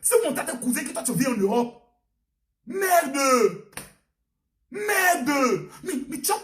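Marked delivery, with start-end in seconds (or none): 2.7-5.7 louder, spat-out swear; loud exasperated curse. Real, not acted. Preacher curses the migrant in loud disgust.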